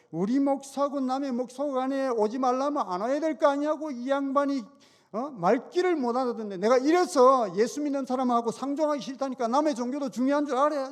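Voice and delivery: a touch of angry shouting, imitated; retold yelling. Mechanic yelling at the deacon to stop coming, mild mock shout. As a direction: mimic the mechanic's half-hearted rant. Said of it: "소리를 지르면서 입에서 막 육두문자가".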